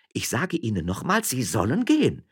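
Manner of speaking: high, insistent demand; controlled indignation; firm miller's wife. Acted. Woman repeats order to leave.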